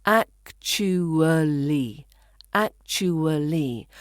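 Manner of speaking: "actually" slowly in four syllables, ac-chu-uh-lee; full pronunciation. Shown as a demonstration. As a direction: sound out every syllable of "actually". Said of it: "So the full pronunciation".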